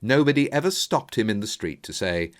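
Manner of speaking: usual speaking voice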